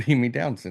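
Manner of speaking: ordinary talk, nothing marked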